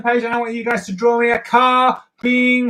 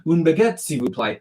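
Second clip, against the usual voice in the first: French phrase; 3 semitones lower than usual. Shown as a demonstration. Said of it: "you go".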